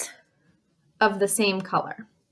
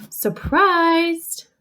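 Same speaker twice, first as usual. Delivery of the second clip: acting surprised; 7 semitones higher, 3 dB louder than usual. Shown as a demonstration. Demonstrates emotion word with its feeling.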